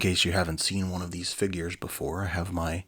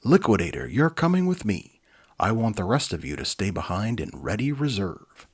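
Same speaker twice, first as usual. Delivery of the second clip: commanding leader; 5 dB louder than usual. Acted. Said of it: "he gave orders".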